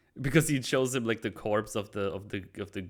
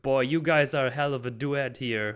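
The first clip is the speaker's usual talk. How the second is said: high, louder sneering Penguin; mock the two cops with a smirk; most penguin way; 5 semitones higher, 6 dB louder than usual. Penguin taunts Batman and Gordon, high and sneering. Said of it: "in the most penguin way".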